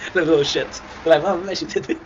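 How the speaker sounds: blurting it out in disbelief; indignant outburst. Real, not acted. Blaming mom for his biting, loud and high.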